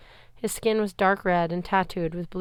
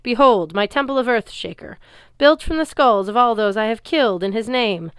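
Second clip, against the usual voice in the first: louder, proud booming threat; booming giant; 4 semitones higher, 7 dB louder than usual. Acted. Giant threatening Percy, loud booming boast. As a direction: boom it over the arena. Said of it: "Antaeus boomed".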